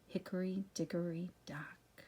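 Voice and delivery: whispered final line; whispering. Acted. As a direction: drop to a whisper to finish. Soft ending of rhyme.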